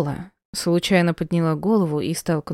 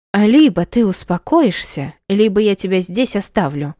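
put-on louder threat to a child; angry threat; 2 semitones higher, 3 dB louder than usual. Mother threatening her crying daughter, angry. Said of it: "прикрикнула она".

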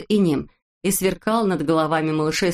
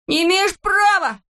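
much higher and louder protest; indignant shout; 13 semitones higher, 4 dB louder than usual. A narrator's reading. Neznaika dragged out by Znaika, high loud indignant shout. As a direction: yell it as he's dragged out. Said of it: "кричал Незнайка".

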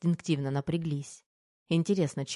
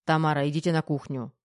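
ordinary delivery

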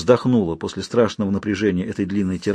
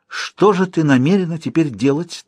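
торжественно; 6 semitones higher than usual. Acted. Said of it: "торжественно спросила она".

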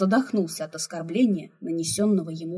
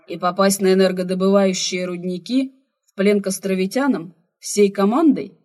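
louder, irritated question; displeased; 7 dB louder than usual. A narrator's reading. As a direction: push back, annoyed and indignant. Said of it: "недовольно переспросил Алиен".

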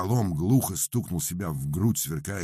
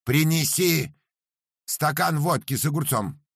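loud order; 13 semitones higher, 5 dB louder than usual. Acted. Master orders the cook.

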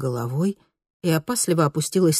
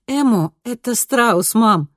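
light laugh; 7 semitones higher, 4 dB louder, slower than usual. A narrator's reading. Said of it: "легко засмеялась Кристина".

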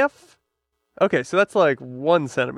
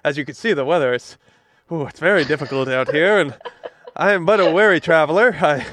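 weary traveler voice. Pretend. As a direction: plead humbly at the door like a drifter. Plays a weary stranger at door.

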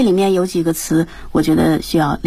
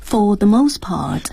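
slow echo of the phrase; slow repetition; slower than usual. Shown as a demonstration. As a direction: copy the phrase slowly and carefully. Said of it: "go over the words and expressions".

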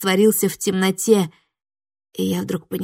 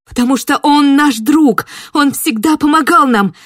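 pleading shout; 6 semitones higher, 8 dB louder than usual. Acted. Героиня кричит, защищая друга.

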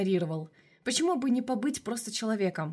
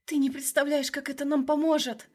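excited; 5 semitones higher than usual. Acted. Girl thrilled by job offer.

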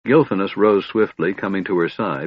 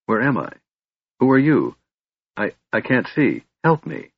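disoriented, higher-pitched pleading; confused alarm; 5 semitones higher than usual. A narrator's reading. Laurana wakes unable to see, confused alarm. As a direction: wake in mild panic, faltering.

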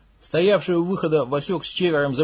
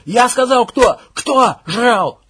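much higher, louder, near shriek; yelling into a shriek; 9 semitones higher, 10 dB louder, much slower than usual. Acted. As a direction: scream until the voice cracks. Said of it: "Срываясь на визг, переходящий в кашель, заорал Макс".

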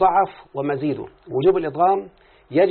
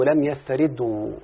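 لم يستردوا said slowly and clearly; slow demo; slower than usual. Shown as a demonstration. Teacher slowly modelling the example for the student. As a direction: lay it out slowly. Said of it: "تقول يا مولانا مثلًا".

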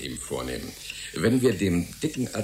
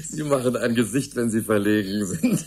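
teasing laugh; 5 dB louder than usual. Acted. Teasing the embarrassed young man.

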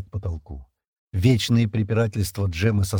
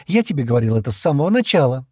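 louder, higher I-told-you-so; triumphant; 5 semitones higher, 5 dB louder, faster than usual. A narrator's reading. Джема gloats to Стэн after his admission, triumphant. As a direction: crow about being right all along. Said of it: "торжествующе заявила Джема".

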